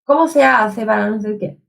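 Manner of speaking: put-on Italian-accented Spanish, lightly done; a hint of Italian-flavoured Spanish. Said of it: "tô falando espanhol com sotaque italiano aqui". (espanhol com sotaque italiano)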